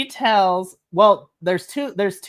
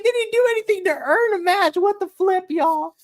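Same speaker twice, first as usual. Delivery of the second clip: high, fast squeaky indignant rant; mock outrage; 14 semitones higher than usual. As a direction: complain in a shrill mock-furious pitch. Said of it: "I was like".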